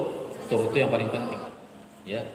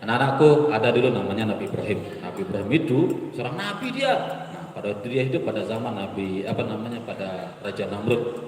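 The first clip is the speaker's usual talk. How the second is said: flat dull storytelling; 3 semitones lower than usual. Shown as a demonstration. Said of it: "Anak-anak ini mau diceritain".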